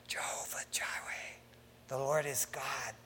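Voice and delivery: soft, breath-only whisper easing into a hush. Acted. Preacher voices Jewish mother to her newborn, whispering. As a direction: whisper it into a baby's ear. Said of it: "they're whispering in their ears".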